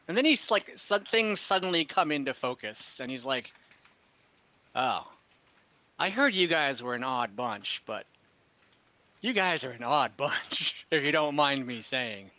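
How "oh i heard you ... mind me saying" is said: lightly voiced friendly merchant; merchant NPC.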